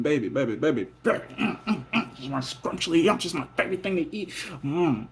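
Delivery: put-on playful baby talk; babyish cooing. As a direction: coo at your lover.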